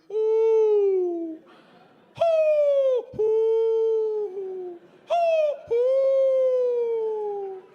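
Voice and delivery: high, loud string of hoots; owl hoots. Retold or imitated. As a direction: keep the hooting going, answering. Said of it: "we hear".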